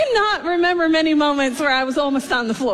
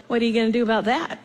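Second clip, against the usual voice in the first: laughing; 2 semitones lower, faster than usual. Retold or imitated. Kid's challenging look, laughed.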